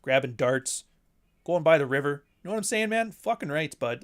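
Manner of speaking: put-on small-town Northern Ontario Canadian accent; hoser-style Canadian accent, imitated. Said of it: "that fucking Canadian accent where you're talking about".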